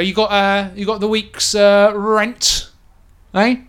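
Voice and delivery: lightly voiced menacing halfling; halfling thug demanding rent. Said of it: "They go".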